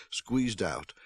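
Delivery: ordinary delivery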